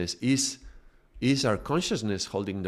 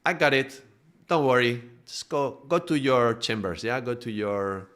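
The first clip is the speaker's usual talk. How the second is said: a crewman hustling his boss off deck; eager first mate. Retold or imitated. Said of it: "And the first mate".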